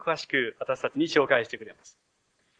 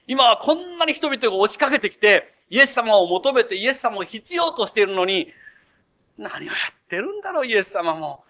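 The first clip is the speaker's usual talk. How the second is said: louder, higher indignant complaining; grumbling complaint; 4 semitones higher, 5 dB louder than usual. Retold or imitated. Simon grumbling that Jesus prays at the wrong time, indignant. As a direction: complain about Jesus, exasperated. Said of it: "シモンはブツブツ".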